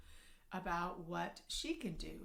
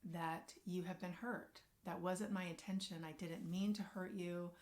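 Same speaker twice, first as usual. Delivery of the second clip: tender apology; 2 semitones lower than usual. Shown as a demonstration. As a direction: lean in gently, own the hurt. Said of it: "that's when you can begin to say".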